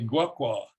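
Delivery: "gwa kwa", voiced g first, voiceless k second; voiced then voiceless. Shown as a demonstration. Lecturer showing voicing options, "gwa kwa" voiced then voiceless. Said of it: "change the voicing of both syllables".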